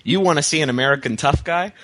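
high, slowed, laughing mock-reading; mocking quoted tough guy. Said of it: "He provides a few answers".

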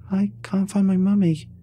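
put-on a lost child saying it without hope; hopelessly tiny voice. A narrator's reading. Ghost girl repeating her plea.

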